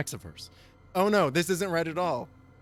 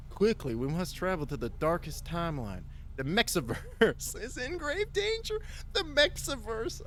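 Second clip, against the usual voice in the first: slow, stretched stoner drawl, pitched up; lazy stoner voice; 4 semitones higher than usual. Pretend. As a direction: sound baked and unhurried. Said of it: "a stoner voice now".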